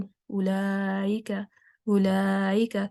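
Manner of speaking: "اولائکا" gliding through a y sound, as ulayika; "اولائکا" run together with a y glide; mistaken ya for hamza. Shown as a demonstration. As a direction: say "اولائکا" slowly with the hamza softened into ya. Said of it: "اس کو یا بنا دیا".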